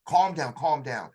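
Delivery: slow, firm "Calm down, calm down"; severe calm command. Retold or imitated. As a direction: order him to settle, steady and stern. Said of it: "he totally went severe".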